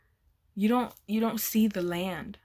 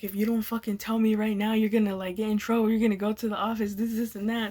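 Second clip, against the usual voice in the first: mock tough threat; faster than usual. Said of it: "trying to be big and tough and scary".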